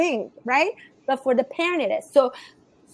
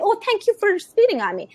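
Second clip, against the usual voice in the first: higher, playful fake thanks; mock gratitude; 5 semitones higher, faster than usual. Coach mocking the idea of thanking a spitting child, playfully grateful. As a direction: put on absurdly grateful thanks. Mocks a wrong reading, then laughs.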